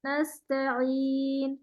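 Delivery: نستعین slow, ت with a slightly tilted vowel; slightly slanted ta. Shown as a demonstration. Teacher models slanted ta for student, slowly. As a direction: tilt the ت of نستعین a little. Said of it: "ہلکا سا ٹیڑھا".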